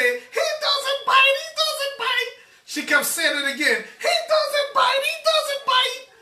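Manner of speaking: squeaky high mock voice, drawn out; mocking dog owner. Dog owner calling to the chased aunt, high mocking falsetto. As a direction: parody the clueless lady's falsetto.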